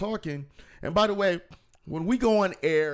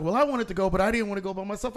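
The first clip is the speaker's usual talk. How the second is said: other lady voiced; 7 semitones higher, faster than usual. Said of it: "And the other lady said".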